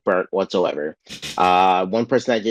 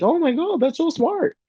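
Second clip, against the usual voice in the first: squeaky falsetto, way up high; mock amazement. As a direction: gush like a dopey fan. Witches mock-amazed reaction.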